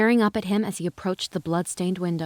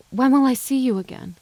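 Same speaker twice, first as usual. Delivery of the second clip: trembling; 6 semitones higher, 4 dB louder than usual. A narrator's reading. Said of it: "the tremor that stole into her voice".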